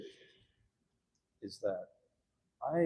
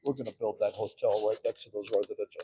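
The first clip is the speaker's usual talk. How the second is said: mocking council members; 6 dB louder than usual. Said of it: "they'd be like".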